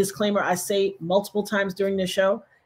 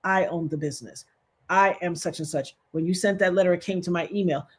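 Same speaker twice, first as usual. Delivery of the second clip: lower, softer, stern; a hint of stern boss; 3 semitones lower, 5 dB quieter than usual. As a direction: play the cool stern owner. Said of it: "popped into his stern face".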